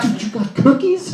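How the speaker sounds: high, thrilled dude; light up at the news; amazed buddy. Retold or imitated. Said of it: "He's like".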